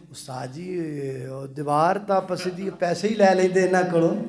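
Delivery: low, hushed, hesitant voice; timid suggestion. Acted. Moses dares to mention payment to his teacher, timid hushed voice. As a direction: venture it softly to the master.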